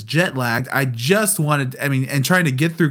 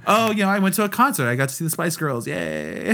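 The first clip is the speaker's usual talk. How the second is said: bright, quick, higher polite chirp that fades on yay; fake cheerful; 4 semitones higher than usual. Polite answer to the customs agent, fake cheerful and fading. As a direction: put on a sweet smile for the agent. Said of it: "My exterior monologue was".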